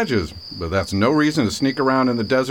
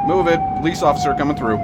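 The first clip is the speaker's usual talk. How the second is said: commanding call; 5 semitones higher than usual. Acted. Cop ordering traffic aside.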